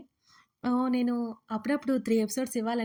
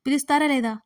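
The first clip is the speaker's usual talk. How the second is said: mildly raised narrated shout; forceful, slightly louder ultimatum; 3 semitones higher, 7 dB louder than usual. A narrator's reading. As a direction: demand it with a touch of yelling. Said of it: "ఆమె మరోసారి గట్టిగా అరిచి".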